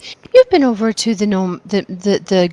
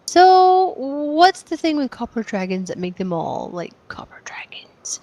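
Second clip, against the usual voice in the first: conspiratorial whisper; slower than usual. Acted. Player character interrogating the dragon.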